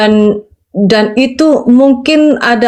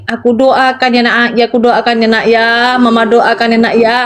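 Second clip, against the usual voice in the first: retold gentle reassurance, pitch settling lower; soothing mother; 3 semitones lower than usual. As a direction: gently reassure an upset child. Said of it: "Saya cuma bilang gini".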